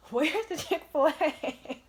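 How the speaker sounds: high, loud, slow goofy voice; dopey tourist voice. Retold or imitated. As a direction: ham up the clueless tourists. Imitating two guys off escalator.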